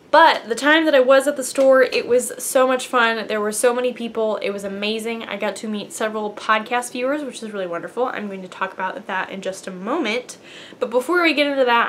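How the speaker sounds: quick, lively rush of talk; speaking very quickly. Real, not acted. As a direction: hurry through it excitedly, barely pausing. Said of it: "I was speaking very quickly".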